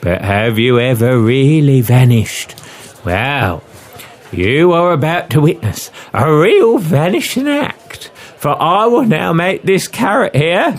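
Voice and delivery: high Cockney music-hall patter; young Cockney woman. Acted. Cockney lady teases the men before her trick, high Cockney showmanship. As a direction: tease the crowd in a female Cockney voice. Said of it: "With a young female Cockney accent".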